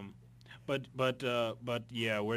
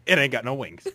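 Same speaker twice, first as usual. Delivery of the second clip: laughing; 3 semitones higher, 12 dB louder, faster than usual. Real, not acted. Punchline repeated laughing.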